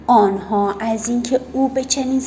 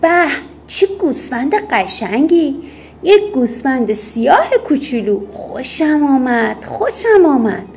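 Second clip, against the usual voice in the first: a guard cries out in delight, a little louder; admiring outcry over the lamb, the second «خوشم» louder and higher; delighted exclamation; 3 semitones higher, 3 dB louder than usual. Acted. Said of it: "فریاد زد".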